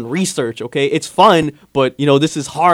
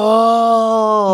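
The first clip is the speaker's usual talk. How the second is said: long, raised, drawn-out oh; stretched-out sound of sudden understanding; mock realization; 6 semitones higher, 4 dB louder than usual. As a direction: imitate the penny dropping. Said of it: "You're like".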